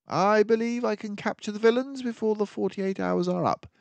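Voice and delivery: a sharp-minded sleuth laying out the danger; keen detective warning of the villains; mouse detective. Acted. Detective gives urgent orders.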